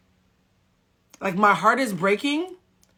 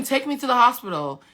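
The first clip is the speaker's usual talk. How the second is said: retold scream; 5 semitones higher than usual. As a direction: insist urgently, as if yelling. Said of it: "And I'm screaming".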